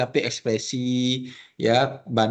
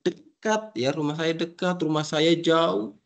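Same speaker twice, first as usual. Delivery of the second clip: higher, lively expressive delivery; animated demo of near and far; 5 semitones higher than usual. Shown as a demonstration. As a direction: say it like you mean each word. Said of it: "jadi ekspresinya di-, dipakai begitu".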